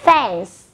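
fence with a clear final s sound, no e spoken; careful pronunciation. Shown as a demonstration. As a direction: end fence on a hissed s. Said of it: "chúng ta phát âm là".

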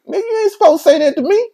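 high, fast, loud protest; retold indignant anger. Man scolding his friend on the phone, retold fast and indignant. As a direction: re-enact an outraged objection. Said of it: "So I'm mad at him".

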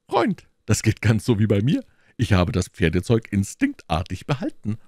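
lively musketeer talking to a friend; slightly lifted, animated character voice; confiding musketeer. Acted. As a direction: voice a musketeer sharing his news.

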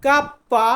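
কাপ্পা with a doubled, held p; Italian letter name. Shown as a demonstration. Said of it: "আমরা বলবো কাপ্পা". (Italian উচ্চারণে কাপ্পা)

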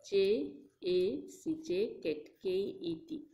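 "jacket" spelled J A C, then K E T, slowly; sounding out words. Shown as a demonstration. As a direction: break "jacket" into letters, slow and clear. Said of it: "Jacket, like that".

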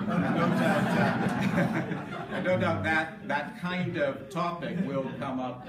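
amused laugh at an awkward topic. Real, not acted. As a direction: chuckle through the words. Laughs about ordination story.

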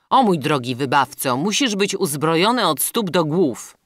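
loud, elated address; excited captive prince. A narrator's reading. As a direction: hail your rescuer eagerly. Prince hails his rescuer.

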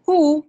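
high, loud hoo; pigeon coo. Shown as a demonstration. Teacher shows children the pigeon's hoo, high and loud. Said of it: "अशा पद्धतीचा आवाज pigeon काढते".

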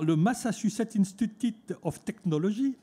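Massachusetts Institute of Technology in French-accented English. Shown as a demonstration. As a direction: try the English name with a strong French accent. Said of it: "alors excusez mon, mon accent".

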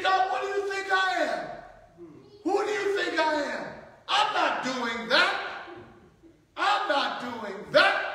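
mock-indignant outburst against God; indignant mock rant; defiant protest. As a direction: act out a believer refusing God, pitched high. Preacher acts defiant believer.

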